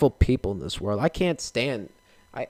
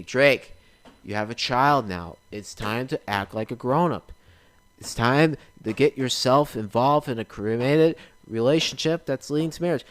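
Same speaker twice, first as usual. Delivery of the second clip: stern parent. Pretend. Parent lecturing him in skit.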